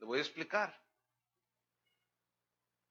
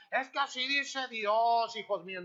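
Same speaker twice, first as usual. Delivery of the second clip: mock preacher; 3 semitones higher, 3 dB louder than usual. Mocking a preacher misquoting God.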